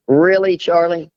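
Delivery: high, incredulous scolding; exasperated retort. Retold or imitated. Wife scolds husband Charlie with incredulous exasperation. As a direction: throw it back at him in disbelief. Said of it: "I'm like".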